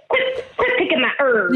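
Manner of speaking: mock Southern twang; overdone Southern telling-off; too Southern. Host takes her cue to imitate herb owner, too Southern. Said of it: "that was too Southern".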